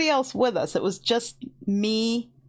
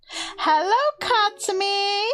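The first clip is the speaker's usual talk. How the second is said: higher, drawn-out hello; greeting a viewer by name, higher and slow; excited greeting; 9 semitones higher than usual. Real, not acted. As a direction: call out a slow, bright-eyed welcome.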